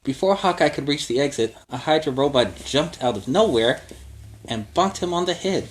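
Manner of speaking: put-on lively read-aloud for kids; storybook narration. A narrator's reading. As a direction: tell it like a bedtime adventure. Reads story to children.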